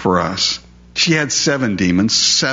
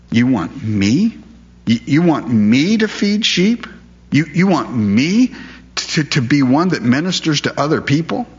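incredulous; 5 semitones higher than usual. Acted. Peter stunned at Jesus's request.

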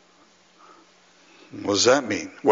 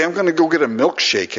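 higher, lightly put-on Scottish accent; 4 semitones higher, faster than usual. Joking that Alistair makes a milkshake sound good, mock Scottish accent. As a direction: imitate a preacher's Scottish accent. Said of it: "he's got that Scottish".

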